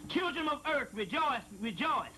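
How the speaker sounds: scripture reading. Acted. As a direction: intone it like holy text. Reading a sacred passage aloud.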